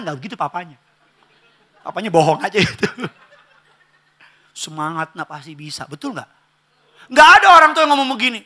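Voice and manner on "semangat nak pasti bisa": softly voiced parental reassurance; gentle encouragement. Parent to child doing homework at night, softly encouraging. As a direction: reassure the child in a low, soft voice.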